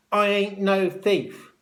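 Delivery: high, loud, slow protest; indignant shout. A narrator's reading. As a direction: shout down the accusation. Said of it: "shouted George".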